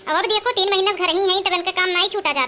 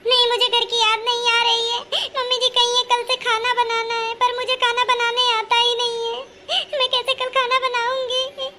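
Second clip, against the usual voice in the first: tearful, higher, slowing at the end; acted tearful complaint; 3 semitones higher than usual. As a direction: sob out the worry to her sister-in-law. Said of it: "पहले चुप हो जाओ". (रोते हुए, धीमे स्वर में शिकायत)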